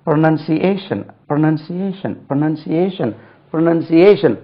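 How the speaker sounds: ப்ரொனன்சியேஷன் repeated as "pro-nun-see-AY-shun"; ப்ரொனன்சியேஷன் modelled over and over for learners; repetition drill. Shown as a demonstration. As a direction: drill ப்ரொனன்சியேஷன், each one falling. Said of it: "ஐம்பது வாட்டியாவது சொல்லணும்".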